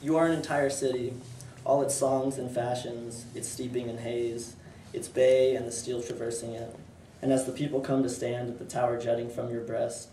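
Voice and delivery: measured, even poem recitation; poetry reading. Acted. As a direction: read it as verse, pausing between phrases. Reads own poem aloud.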